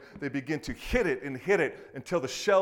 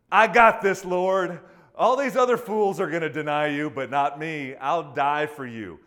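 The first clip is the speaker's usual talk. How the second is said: bravado; 8 dB louder than usual. Retold or imitated. Preacher acts out Peter boasting to Jesus, loud cocky bravado. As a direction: brag it like you can't lose. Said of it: "All this bravado".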